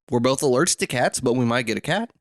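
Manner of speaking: scratchy, unsteady voice; talking through a rough throat. Real, not acted. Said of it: "my throat is just all over the place".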